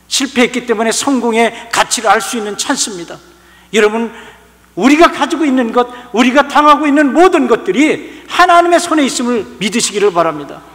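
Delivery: loud, high pulpit climax; fervent sermon peak, slowing on the scripture; preaching at full force. Acted. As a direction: build it up and drive it home.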